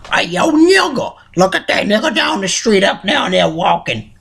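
lightly voiced mean old man taunting a passer-by; a hint of a cranky old man mocking someone down the street; Stinkmeaner. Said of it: "it's not me like".

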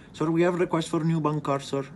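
exaggerated Indian call-center accent; mock call-center accent. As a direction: play a scammy call-center agent with a thick accent. Caller pushes the card offer.

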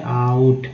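आउट, gliding from आ into उ; open आ glide. Shown as a demonstration. Teacher showing learners OU in आउट, opening on आ. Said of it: "आ के रूप में".

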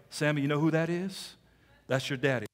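lightly voiced low recruiter; recruiter's pitch. Recruiters pointing out Sammy's father to him, lightly imitated pitch.

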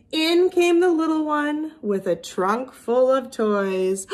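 lively storybook reading with character voices; reading to children. A narrator's reading. Teacher reading a picture book to her class. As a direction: read it to little kids with expression.

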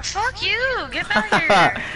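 shouting furiously at enemies; angry yell. Real, not acted. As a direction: bark it out at full volume. Yelling at rioters in game.

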